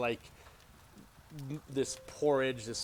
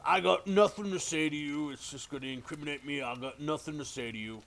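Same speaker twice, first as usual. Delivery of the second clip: defiant prisoner; 5 semitones higher, 5 dB louder than usual. Acted. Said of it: "He goes".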